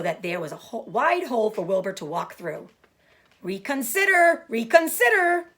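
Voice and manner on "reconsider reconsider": high, loud, slow goose cry; cried goose. Acted. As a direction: plead like a goose. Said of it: "cried the goose".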